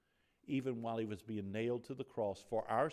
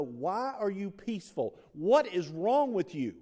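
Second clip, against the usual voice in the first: louder, slowed, higher mock-incredulous asking; puzzled onlookers; 6 semitones higher, 11 dB louder than usual. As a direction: lean in like a stunned bystander. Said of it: "They want to know".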